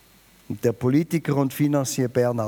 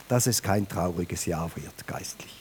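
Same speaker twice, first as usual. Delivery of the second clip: near-whisper, lower and softer; whispered plea; 9 semitones lower, 5 dB quieter than usual. Acted. Preacher urges the congregation, whispered. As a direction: lean in and whisper it.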